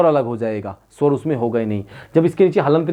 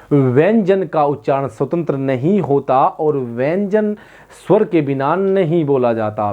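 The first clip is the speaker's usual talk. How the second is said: slow dictation; slower than usual. Shown as a demonstration. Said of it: "छोटी सी definition मैंने पहले ही आप लोगों को लिखाई थी".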